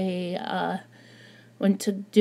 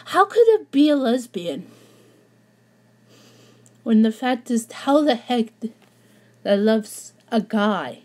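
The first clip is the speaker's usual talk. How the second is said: blubbering; 2 semitones higher than usual. Real, not acted. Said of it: "I'm sorry I'm crying like this".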